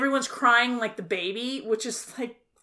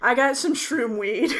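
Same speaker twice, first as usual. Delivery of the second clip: laughing; 3 semitones higher than usual. Retold or imitated.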